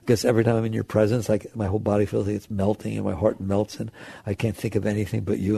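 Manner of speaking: low, soft, quick outpouring; acted lovestruck confession, hushed; tender love confession. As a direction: gush quietly to a sweetheart.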